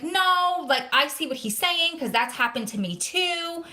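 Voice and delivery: retold protest, jumping in to defend someone; indignant retort. Retells defending coworker in argument.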